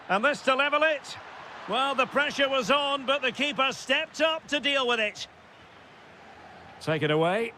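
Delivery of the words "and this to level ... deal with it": raised pitch, tense match call; keyed-up play-by-play; excited commentary. Real, not acted. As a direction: lift the voice for a chance at goal. Chance to level, keeper saves.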